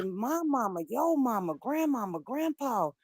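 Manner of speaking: high, loud outraged scolding; indignant rant. Retold or imitated. Scolding her cousin, high, loud and outraged. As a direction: scold him for shaming the family. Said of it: "I say".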